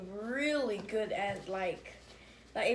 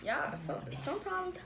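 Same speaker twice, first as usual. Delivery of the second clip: mouth full; 2 semitones higher, 6 dB quieter than usual. Real, not acted. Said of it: "you talking with your mouth full".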